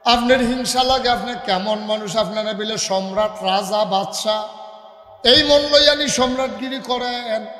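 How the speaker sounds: indignant reproach. Acted. Son challenges his emperor father's jealousy, indignant reproach.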